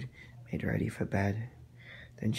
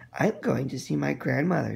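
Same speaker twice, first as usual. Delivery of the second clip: put-on little girl voice; 4 semitones higher, 4 dB louder than usual.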